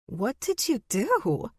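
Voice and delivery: high, slow, amused question; delighted, teasing curiosity; laughing question. A narrator's reading. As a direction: ask it as if amused, with little actual laughter.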